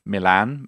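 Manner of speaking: "Milan" said the English way, stress on the end, mi-LAN; English pronunciation. Shown as a demonstration. Contrasting English and Japanese city names, English Milan. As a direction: say "Milan" flat, as English does. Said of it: "in Japanese is Milano".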